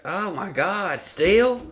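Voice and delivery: high incredulous rising still; disbelief. Retold or imitated. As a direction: sound amazed. Girls' disbelief.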